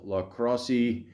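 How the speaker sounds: La Crosse in a slight put-on accent. Real, not acted. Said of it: "I said it with an accent".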